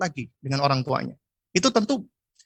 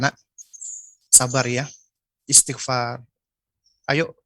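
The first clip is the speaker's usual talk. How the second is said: slow, tender and patient, lightly voiced; gentle reassurance; 2 semitones lower than usual. Shown as a demonstration. Mother calming her child after crying, gently and slowly. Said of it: "Kita sampaikan kata-kata".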